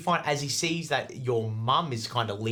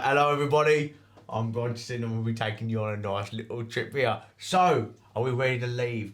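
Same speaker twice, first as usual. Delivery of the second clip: polite sellsword greeting. Acted. Bronson greets family again.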